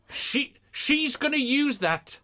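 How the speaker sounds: mock dread whispered. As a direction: breathe it like a dark warning. Dread at the host with mic.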